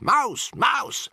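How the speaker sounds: high shrill cry of alarm; alarmed shout. A narrator's reading. Witches spotting a mouse, alarmed shouts. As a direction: yell out in alarm.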